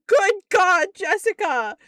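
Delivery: high, loud shocked shout; shocked outcry. Retold or imitated. Boss shouting in horror at her employee's story. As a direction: cry out in horror.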